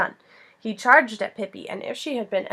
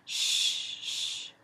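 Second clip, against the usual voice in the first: soft, voiceless hush; Pippi's whispered shush; 8 dB quieter than usual. A narrator's reading. Pippi hushing Annika near the sleeping bull, whispering. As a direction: shush them quietly. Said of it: "whispered Pippi".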